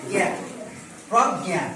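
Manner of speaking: জ্ঞা and প্রজ্ঞা with gya through the nose; nasal g. Shown as a demonstration. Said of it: "নাকের উপর দিয়ে জ্ঞা". (জ্ঞা, প্রজ্ঞা নাকি সুরে)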